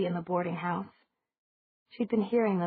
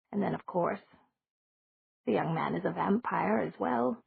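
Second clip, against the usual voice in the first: lightly voiced old lady, matter-of-fact; a hint of a genteel old woman; elderly landlady.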